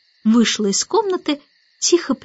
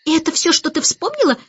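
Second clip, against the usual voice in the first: higher, mildly dismayed; sad question; 6 semitones higher than usual. A narrator's reading. Starling asks the forgetful baby, mildly sad. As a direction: ask with understated disappointment. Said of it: "печально спросил Скворец".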